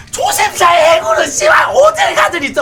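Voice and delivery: loud, swaggering boast; boastful shouting. Real, not acted. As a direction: brag it out at full voice. Boasting loudly.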